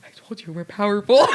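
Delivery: can't hold the laugh while quoting him; real laughter breaking through a retold boast. Real, not acted. Teller cracking up retelling.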